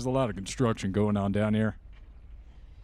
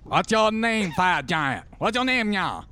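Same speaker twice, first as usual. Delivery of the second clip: put-on gruff villain accent; 7 semitones higher than usual. NPC demands giant's name.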